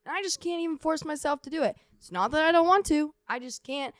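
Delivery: retold frustration, voice pushed up; frustrated venting. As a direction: plead helplessly with the parents. Acts out venting to parents.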